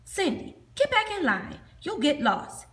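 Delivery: high, loud calling out; teacher yelling. Acted. Teacher yelling at kids on a trip, loud. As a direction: call the straying kid back. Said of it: "the tall one yelled".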